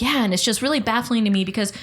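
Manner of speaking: retold exasperation, pitch lifted; mildly indignant, replaying your own complaint; baffled venting. Daughter retelling her phone rant to mom, baffled venting.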